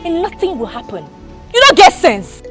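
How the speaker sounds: angry. Acted. Madam insults him, shouting.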